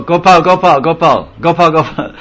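lightly acted serving-line call; calling for salt. Acting out asking for salt at meal.

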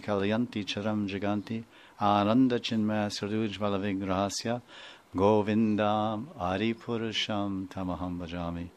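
softly recited Sanskrit prayer verse; quiet devotional recitation. Acted. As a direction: chant the verse gently, devotional.

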